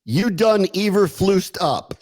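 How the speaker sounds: slow, drawn-out "You done Eberflust up"; slow punchline. Acted. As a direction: savour each word of "Eberflust". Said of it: "sounds like a German headline".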